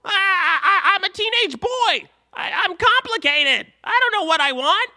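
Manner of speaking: put-on high, loud, whiny teen voice with nervous laughs; hammed-up angsty teen whine; Lars impression. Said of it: "That was my Lars impression".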